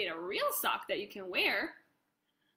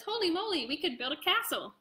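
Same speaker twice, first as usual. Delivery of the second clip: put-on amazed kid; 5 semitones higher than usual. Brandon quoted excited.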